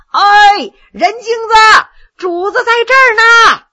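high, loud hail across a distance; calling out loud. Acted. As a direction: shout to someone far down the road. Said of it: "高声喊着". (高声远喊)

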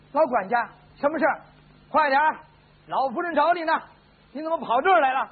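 high, loud flustered maid; urgent exclaiming. Acted. Maid acts surprised, passing urgent message.

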